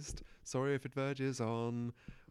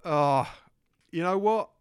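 excited; 4 semitones higher, 12 dB louder than usual. Acted. Improvised British bloke characters.

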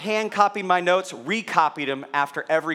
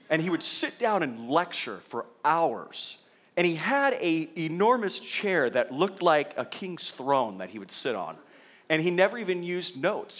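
quiet droning professor. Retold or imitated. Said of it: "and he talked like this".

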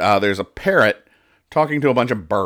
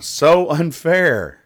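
high, drawn-out sulky complaint; mock whine; 7 semitones higher, much slower than usual. Penguin who failed the flying test, whining. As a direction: stretch it out high, wronged and pouting.

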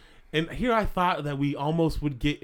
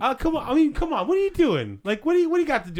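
pushy fan; 11 semitones higher, faster than usual. Pretend. Fan pressing the busy host, high pushy prying. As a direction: pester him with the question. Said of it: "We do a little role play".

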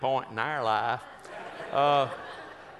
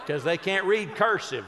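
laughing through the punchline; 4 semitones higher, 4 dB louder than usual. Real, not acted. Laughing at his own joke to the audience. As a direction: chuckle as you say it.

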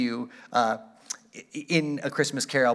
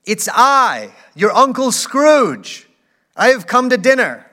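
put-on humble old uncle; 9 semitones higher, 11 dB louder, slower than usual. A narrator's reading. Scrooge announces himself to family.

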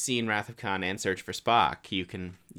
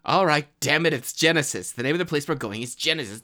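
McCoy quote; 2 semitones higher, 5 dB louder than usual. Retold or imitated. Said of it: "loved the McCoy scene".

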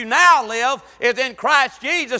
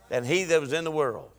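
hushed unvoiced whisper; 8 semitones lower, 8 dB quieter than usual. Preacher voicing God to the saved, whispering. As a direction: drop it to a secret whisper. God's words whispered close.

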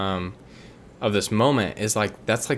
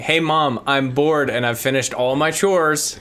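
put-on higher, louder, slow bored-kid whine to Mom; 6 semitones higher, 4 dB louder, slower than usual. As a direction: play the eager kid asking Mom for more. Kid pestering mom in comparison.

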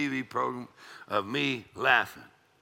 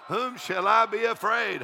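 slow, high preaching call; triumphant proclamation; 8 semitones higher than usual. Acted. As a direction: declare the verse, pitched right up. Preacher proclaims scripture between laughs.

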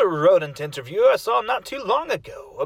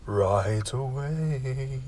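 much lower, slow, very formal servant; a stately low butler, taking his time; deep butler voice; 9 semitones lower, 6 dB quieter, much slower than usual. Acted. Butler accepts the order.

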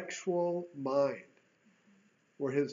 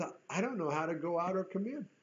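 softer, humble plea; sincere humility; 6 dB quieter, faster than usual. Retold or imitated. Solomon answering God, soft and sincere. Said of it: "hear God help me in Solomon's voice".

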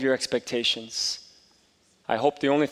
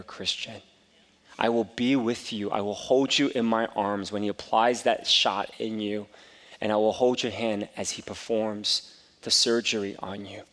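tender reassurance; 2 semitones lower than usual. Retold or imitated. Father comforting scared son.

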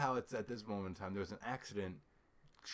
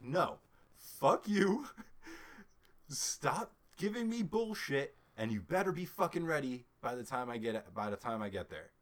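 retold pissed-off; 3 semitones higher, 4 dB louder than usual. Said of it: "I was pissed the entire ride up".

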